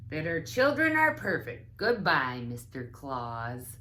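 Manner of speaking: put-on a polite child fibbing on the phone; Trix answering phone. Trix ends the call.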